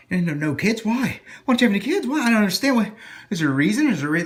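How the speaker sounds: high, loud, incredulous needling of why; mock an adult pressing him on why he has no kids; pushy nosy questioner. Nosy adult demanding why he has no kids, high and incredulous. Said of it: "people asking forcefully why".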